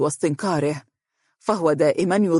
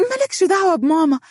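higher-pitched, smiling reassurance; placating smile; 7 semitones higher, faster than usual. A narrator's reading. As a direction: soothe his anger in a raised pitch. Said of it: "بابتسامة تريد بها امتصاص غضبه".

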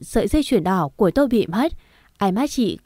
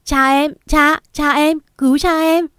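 high, loud panicked scream for her father; terrified daughter screaming for her father; 7 semitones higher, 4 dB louder than usual. A narrator's reading. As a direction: cry out to save him. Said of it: "Tôi hét lên".

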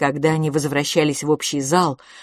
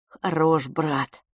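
plain reading voice

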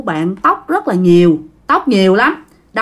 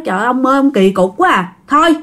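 mild, exasperated scolding, rising in pitch; 4 semitones higher than usual. Acted. Grandma telling grandpa to sleep indoors, mildly scolding. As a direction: chide him, climbing higher as it goes on. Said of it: "Bà ngoại mới la".

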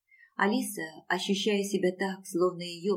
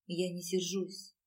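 softer and slow, worn out; slow, soft, utterly tired; exhausted; 8 dB quieter, slower than usual. A narrator's reading. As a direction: speak with the last of her strength. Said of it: "из последних сил проговорила Алиса".

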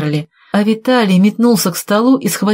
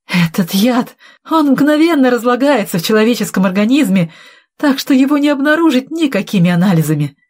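higher-pitched, defiant boasting; вызывающе; 6 semitones higher than usual. Acted. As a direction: argue back, quickening at the end. Cornered villain boasts of poison. (с вызовом, всё быстрее)

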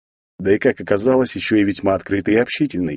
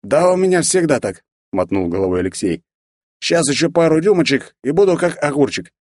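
tipsy braggart; 6 semitones higher than usual. A narrator's reading. Drunk Alexey bragging.

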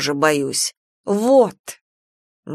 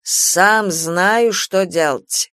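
put-on drunk voice; much slower than usual. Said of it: "Супруг пьяным голосом".

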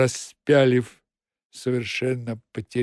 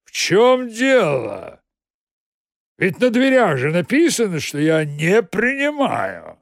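irritated boss; 6 semitones higher, 5 dB louder than usual. Acted. Boss snapping at the accountant who barged in, irritated. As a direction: bark at the intruder from behind the desk.

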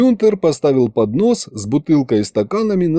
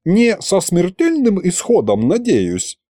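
careful higher voice; 7 semitones higher than usual. A narrator's reading. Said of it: "уточнил Витарамус".

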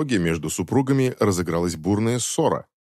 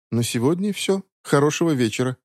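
polite; 6 semitones higher than usual. Acted. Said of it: "вежливо ответил я".

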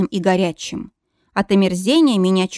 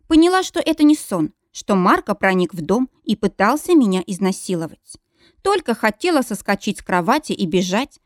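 ordinary delivery, nothing marked

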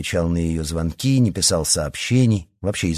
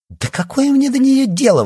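much higher, louder indignant cry; indignant outburst; 6 dB louder than usual. A narrator's reading. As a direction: fling it back at him, outraged. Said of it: "возмутилась Лия". (возмущённый громкий выкрик)

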